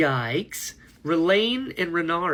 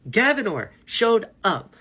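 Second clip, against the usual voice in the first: laughing; 6 semitones higher, 4 dB louder than usual. Real, not acted. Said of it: "This is already off to such a bad start".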